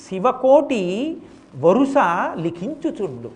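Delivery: slow, measured recitation of a poem; verse recitation. Acted. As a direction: chant the verse slowly, savouring each word. Recites a long devotional verse.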